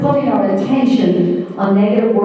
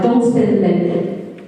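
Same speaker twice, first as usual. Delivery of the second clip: put-on slow stern warning to a child; much slower than usual. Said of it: "if I said to a child".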